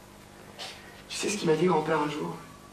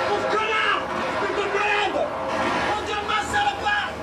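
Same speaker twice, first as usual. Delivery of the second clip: furious shouting; 9 semitones higher than usual. Acted. Abandoned friend screams insults at Antoine, furious yelling. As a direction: scream abuse at his back.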